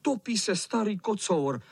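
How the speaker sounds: vyšší hlas, polekaně; vyděšené volání. Acted. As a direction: volat o pomoc. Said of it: "Kluci se lekli a volali". (kluci se lekli o kocoura)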